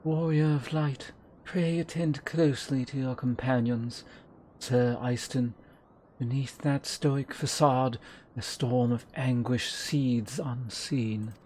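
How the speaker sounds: slow, soft, grave mysterious voice; ominous warning. Acted. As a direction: warn them slowly and darkly. Voicing mysterious character.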